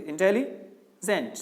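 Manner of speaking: इंटेलिजेंट said slowly with small stops between syllables; slow, with pauses. Shown as a demonstration. Teacher showing you must stop midway in the word, slowly. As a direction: pause lightly inside इंटेलिजेंट. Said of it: "थोड़ा रुके".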